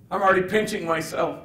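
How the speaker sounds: like he can't believe it; amazed. Retold or imitated. Gabriel stunned at himself in a suit, high and awed.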